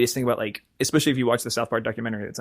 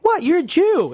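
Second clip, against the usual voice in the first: put-on high-pitched, louder taunt of a kid; mocking idiot kid; 4 dB louder than usual. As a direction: imitate an idiot kid's jeering exclamation. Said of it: "all the idiot kids who are like".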